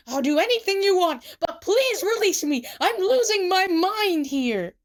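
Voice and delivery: desperate, high begging; loud plea at the end of his wits; Tsukasa. A narrator's reading. Tsukasa begs to be released, desperate.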